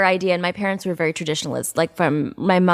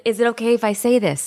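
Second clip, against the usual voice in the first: tentative, higher-pitched polite question; mock Canadian politeness; over-polite; 4 semitones higher than usual. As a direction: ask permission like a timid Canadian. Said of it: "they're so polite".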